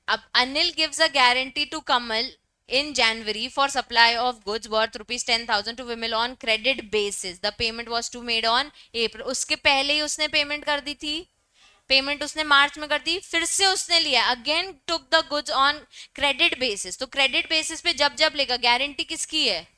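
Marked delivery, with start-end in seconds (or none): 0.1-9.2 very slow, word-by-word reading; slow dictation. Acted. Teacher dictating the example to students, very slow. 14.3-17.0 very slow, word-by-word reading; slow dictation. Acted. Teacher dictating the example to students, very slow.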